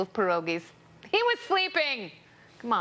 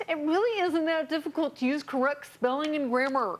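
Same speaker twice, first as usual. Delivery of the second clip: mock German Nazi officer accent, pitched higher; 5 semitones higher than usual. Host mocking a grammar-policing tweet in Nazi accent. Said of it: "Is that your Nazi accent?".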